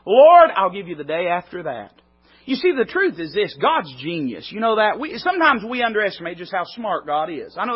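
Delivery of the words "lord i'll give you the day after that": a louder, earnest offering of each day; earnest prayer. Shown as a demonstration. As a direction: pray it aloud as an example. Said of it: "let me put it in practice".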